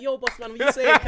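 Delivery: loud street greeting; london roadman accent. Retold or imitated. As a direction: call out like a roadman. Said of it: "you're like".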